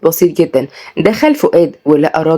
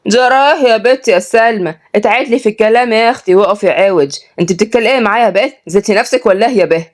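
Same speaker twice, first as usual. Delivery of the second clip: higher, scolding Upper-Egyptian matron; scolding old woman; 5 semitones higher than usual. Acted. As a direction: scold the girl like an old village lady. Old woman Mervat scolding Salma.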